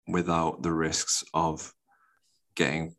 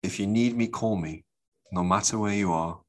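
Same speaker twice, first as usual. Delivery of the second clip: reading lyrics. Shown as a demonstration. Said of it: "read out the lyrics".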